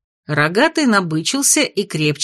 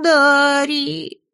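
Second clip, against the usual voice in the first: high wailing imp cry; howling imp; 9 semitones higher than usual. Acted. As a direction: wail it out in joy. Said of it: "провыл хвостатый".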